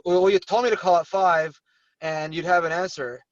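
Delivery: mildly nagging agent, demanding an answer; mock impatient follow-up call; pushy complaint. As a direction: lightly act out an annoyed complaint. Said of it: "don't ever talk like that to somebody".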